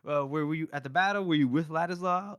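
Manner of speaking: mock-excited soldiers welcoming back their buddy; excited greeting. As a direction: gush like overjoyed old friends. Happy friends greeting Wes.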